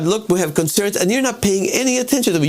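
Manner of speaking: half-hearted yell at an elected representative; mock yelling. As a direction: play a frustrated voter demanding attention. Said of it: "I'm yelling at you".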